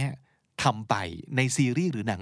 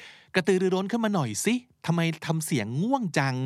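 mock self-chiding; 6 semitones higher than usual. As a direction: playfully urge yourself to perk up. Acting out chiding own sleepy voice. (แกล้งดุตัวเองให้กระตือรือร้น)

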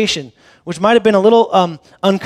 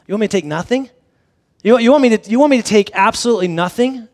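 incredulous disciple; 4 semitones higher, 4 dB louder than usual. Retold or imitated. Disciple balks at Jesus' orders.

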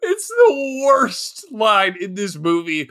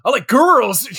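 mock-indignant bro, higher and louder; defensive straight dude; 5 semitones higher, 4 dB louder than usual. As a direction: overplay a guy insisting he likes girls. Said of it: "straight dude energy where he's just like".

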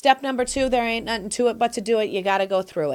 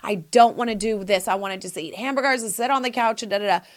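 whiny excuses; faster than usual. Retold or imitated. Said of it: "go through the pain".

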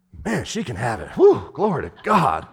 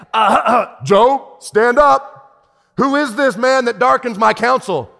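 voice of God; 6 semitones higher, 4 dB louder, slower than usual. Acted. God voiced rebuking Job.

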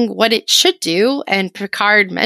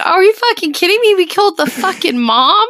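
mock outraged disbelief, pitched up; incredulous Picard; 6 semitones higher than usual. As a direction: act out an appalled captain, higher and quick.

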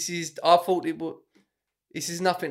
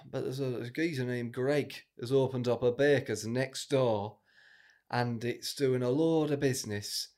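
downbeat northern man, lightly voiced; a vague, unconvincing northern English accent, subdued; attempted northern English accent. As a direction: play a dejected northerner with a wobbly northern accent. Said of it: "a, a northern man".

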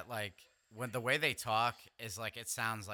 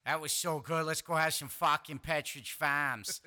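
mock porn voice; 5 semitones higher, 7 dB louder than usual.

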